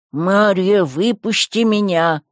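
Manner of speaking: muffled call from a closed place; disembodied voice. Acted. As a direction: voice calling from nowhere. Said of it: "Снова раздался тот же голос". (голос из ниоткуда)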